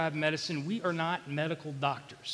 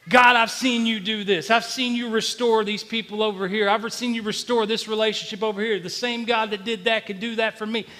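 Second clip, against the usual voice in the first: raised, urgent pleading prayer; retold prayer in a raised voice; crying out to God; 5 semitones higher, 6 dB louder than usual. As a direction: plead with God, recalling past miracles. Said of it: "crying out to God to make this".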